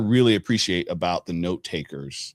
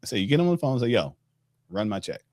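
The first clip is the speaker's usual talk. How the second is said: blunt demand; 3 semitones higher, faster than usual. Shown as a demonstration. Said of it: "Say it just like that".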